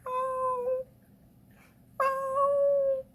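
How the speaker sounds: very high, long plaintive wail; imitated crying cat. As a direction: mewl like a distressed cat. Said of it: "I can hear Gwynny".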